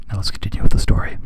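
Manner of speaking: quick hushed whisper. Real, not acted. Reader aside, a quick whisper before resuming the story. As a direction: whisper it fast, moving on.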